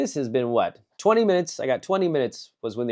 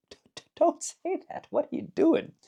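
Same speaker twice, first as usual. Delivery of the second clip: mock panic. Viewer reacting to awkward answer.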